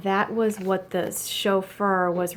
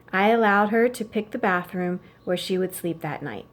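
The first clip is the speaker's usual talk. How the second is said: even, steady read-aloud narration; story narration. A narrator's reading. Teacher reading a novel to her class, steady narration.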